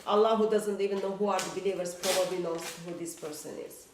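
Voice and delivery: ordinary talk, nothing marked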